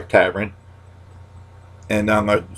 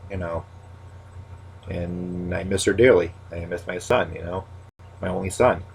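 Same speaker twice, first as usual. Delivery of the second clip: grieving; 6 dB quieter than usual. Real, not acted. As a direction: speak quietly through real grief. Speaking of lost children.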